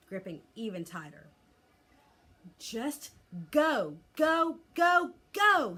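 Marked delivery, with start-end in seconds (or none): 2.6-5.7 frantic scream, much higher and louder; desperate shrieking command, over and over. A narrator's reading. Boy flapping his arm at a clinging dragon, frantic screaming. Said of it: "screamed Hiccup".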